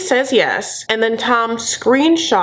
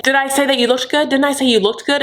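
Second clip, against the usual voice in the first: higher, quick put-on questioning; Tom impression; 5 semitones higher, faster than usual. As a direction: press the question in a mock accent. Mimics Tom questioning Lisa.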